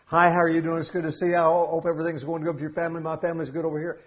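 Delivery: fast, breathless run-on small talk; one endless sentence with no pauses; mock run-on chatter. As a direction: rattle it off without a breath. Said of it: "No punctuation marks".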